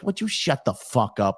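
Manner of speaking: annoyed, in his own everyday accent; mildly fed-up request for silence. Shown as a demonstration. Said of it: "being annoyed".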